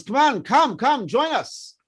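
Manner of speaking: lightly voiced kids coaxing, pitched well up; calling kids. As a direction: coax like a child from the top of the bars. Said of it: "some of the kids says".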